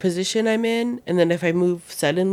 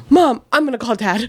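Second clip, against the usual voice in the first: higher, mock-alarmed kid; worried child; 4 semitones higher, 4 dB louder than usual. Daughter reacts to mom's pains, imitated worry. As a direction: imitate an anxious daughter warning her mom. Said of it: "she has, like, that worried look".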